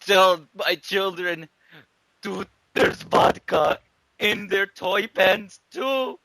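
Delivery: slow, high, loud last words; hammed-up slow dying shout; mock dying shout. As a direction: yell it out before dying. Dying soldier's last order.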